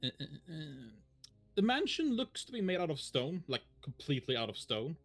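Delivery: measured scene-setting narration; story narration. Acted. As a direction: paint the scene for the players. Game master scene setting.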